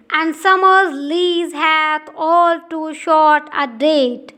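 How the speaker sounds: slow, measured reading of verse; poem recitation. Acted. Teacher reading a Shakespeare sonnet to students, slow and measured. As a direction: let each line of the sonnet land slowly.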